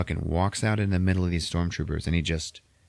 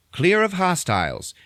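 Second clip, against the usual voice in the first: high, raised droid call; droid announcing; 11 semitones higher, 4 dB louder than usual. Retold or imitated. Droid's announcement in retold scene.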